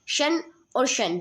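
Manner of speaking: शन said slowly, both as "shun"; pronounced shun. Shown as a demonstration. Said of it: "इनको pronounce हम शन ही करते हैं".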